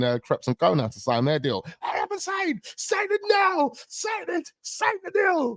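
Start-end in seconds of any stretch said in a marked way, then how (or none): 1.8-5.6 very high squeaky mock demand; pushy agent impression. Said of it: "It sound like the guy that was telling".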